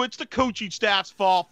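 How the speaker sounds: slow, high whiny complaint; troll voice. Acted. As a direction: drag it out like a troll. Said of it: "the troll voice".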